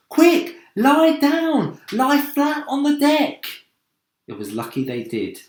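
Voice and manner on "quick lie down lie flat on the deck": loud, high, drawn-out orders; urgent command. Acted. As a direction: get everyone down, fast. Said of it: "cried James".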